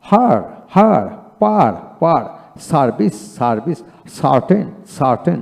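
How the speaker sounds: "হার", "পার", "সার্টেন" with an open aa for the e; e pronounced as aa. Shown as a demonstration. Teacher shows how the letter e sounds, as aa. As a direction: open the vowel to aa in "হার" and "সার্ভিস". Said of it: "ই দিয়ে আ উচ্চারিত হয়".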